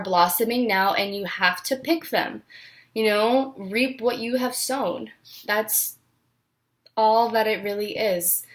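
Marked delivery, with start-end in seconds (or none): 5.5-8.5 whispered. Real, not acted. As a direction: let it fade to a whisper. Trailing off in emotion.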